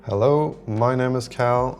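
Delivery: a drawn-out, measured test hello; greeting test take. Shown as a demonstration. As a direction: announce yourself slowly for the microphone.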